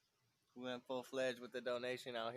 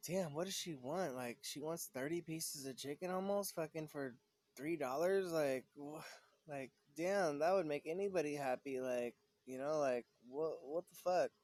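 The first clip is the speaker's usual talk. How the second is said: higher-pitched, exasperated disbelief; can't-believe-it rant, pitch riding up; blown away; 4 semitones higher than usual. Retold or imitated. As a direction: retell being floored by an outrageous demand. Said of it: "I was just blown out".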